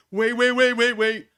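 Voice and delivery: high, loud frantic wait wait; mock panicked shout. Retelling his debate opponent, a loud mock panicked stop. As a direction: yell it like you suddenly realise the trap. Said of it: "he can't go back and say".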